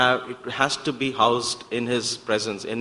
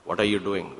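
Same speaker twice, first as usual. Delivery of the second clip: Swami's voice; 7 semitones lower, 7 dB quieter than usual. Retold or imitated. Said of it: "So he would just say".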